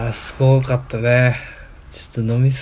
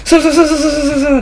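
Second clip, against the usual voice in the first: shivering; 11 semitones higher, 4 dB louder, faster than usual. Retold or imitated. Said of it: "って言いながら".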